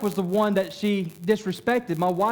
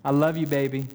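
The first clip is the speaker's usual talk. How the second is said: tender to spouse; 5 semitones lower than usual. Shown as a demonstration. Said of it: "look at him right now and tell him".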